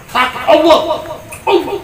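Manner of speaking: sudden high yelp of Allah; high startled shout of Allah, half laughing; acted cry of pain. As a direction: cry out as if stung. Reenacting scorpion-sting scream.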